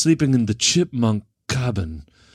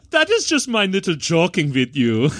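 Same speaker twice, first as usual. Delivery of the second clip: playful mock German, pitched up; German accent; 4 semitones higher than usual. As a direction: joke in a comic German accent. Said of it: "that was a great German accent".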